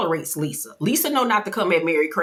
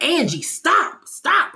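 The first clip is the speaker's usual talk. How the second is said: mock pleading; 10 semitones higher, slower than usual. Voicing Mary calming Angie.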